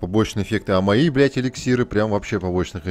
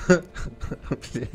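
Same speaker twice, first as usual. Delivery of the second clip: laughing; 6 semitones higher, 4 dB quieter than usual. Real, not acted. Streamer laughs at game bug.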